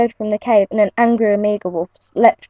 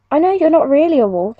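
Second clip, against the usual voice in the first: shouted; 6 semitones higher than usual. Acted. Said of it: "she shouted".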